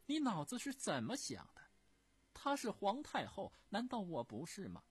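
high, loud imperious scolding; a furious empress dowager demanding answers; indignant empress dowager. Acted. Empress dowager scolding Prince Gong, high and loud in indignation.

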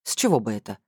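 low, baffled question; lightly voiced man, mildly dumbfounded; Vladimir, taken aback. A narrator's reading. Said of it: "вконец опешил Владимир".

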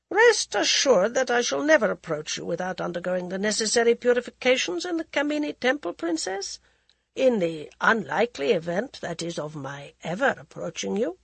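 cool, mocking aristocrat voice; mocking prince. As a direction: sneer it like a bored royal. Prince Pratap mocks bride.

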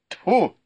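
high, sharp spat-out tfu; spitting in disgust. A narrator's reading. Rider spits at the stinking man, disgusted spit. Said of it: "сплюнул Лю Сяньлянь".

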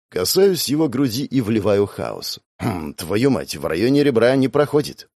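ordinary delivery

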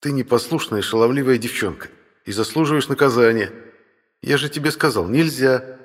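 mock-stern older brother scolding; teasing big brother voice.

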